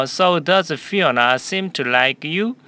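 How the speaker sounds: slow, even model sentence for repeating; teacher modelling a line slowly for the class; slow model reading. Shown as a demonstration. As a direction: read it slowly so students can follow. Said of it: "한 번 더요".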